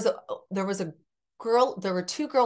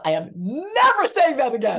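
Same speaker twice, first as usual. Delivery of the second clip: higher, louder emphatic vow; vow to God; 8 semitones higher, 5 dB louder than usual. Retold or imitated. Widow telling God after husband died, emphatic louder vow. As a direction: swear it off, emphatic. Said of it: "I told God".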